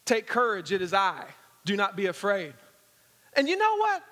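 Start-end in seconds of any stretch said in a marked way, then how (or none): 0.0-2.5 calm reassurance. Retold or imitated. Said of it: "here's what Jesus said".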